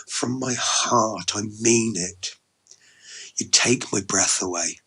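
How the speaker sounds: mean every word, gently and unhurriedly; heartfelt sincerity. Acted. Sincere declaration of love.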